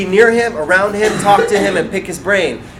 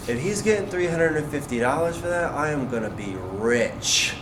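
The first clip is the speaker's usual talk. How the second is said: inner thought; 2 semitones lower, 7 dB quieter than usual. Retold or imitated. Watching the stylist and thinking to himself, hushed inner thought. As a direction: murmur it to yourself, savouring the last words. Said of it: "That's all I can think in my head".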